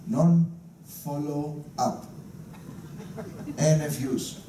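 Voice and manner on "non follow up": slow punchline. Acted. Punchline delivered slowly.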